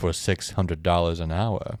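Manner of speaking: low, soft, deep voice with gravitas. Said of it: "with his deep gravitas voice".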